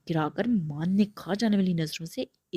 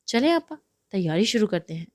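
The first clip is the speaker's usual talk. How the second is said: happy; 2 semitones higher, 4 dB louder than usual. Acted. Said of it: "خوش ہو کر کہا".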